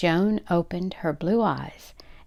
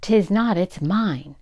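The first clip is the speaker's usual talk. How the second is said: put-on childish contradiction; 4 dB louder, slower than usual. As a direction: throw it back like a petulant child. Wife throws the contradiction back louder.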